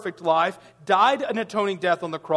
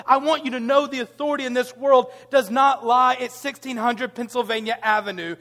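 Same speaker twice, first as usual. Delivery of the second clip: emphatic proclamation; 3 semitones higher than usual. Real, not acted. Emphatic declaration.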